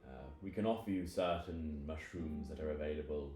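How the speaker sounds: a hint of a grave old host; mushroom elder, measured. Game master voices mushroom elder Guldob.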